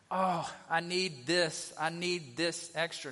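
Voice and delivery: slow, needy "Oh, I need this"; whiny asking. Retold or imitated. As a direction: pretend to beg greedily. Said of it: "Don't just go to God going".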